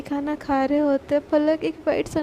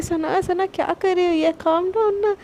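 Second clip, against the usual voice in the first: panicked plea; 3 semitones higher than usual. Retold or imitated. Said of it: "पलक उस डर घबरा जाती है".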